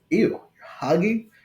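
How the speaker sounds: put-on high, slow, squeaky kid voice pulling a face; grossed-out little kid. Imitating a boy who sees two men hug, high disgusted kid voice. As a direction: mimic a small boy who finds hugging gross. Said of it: "the two boys stop cold in their tracks and like".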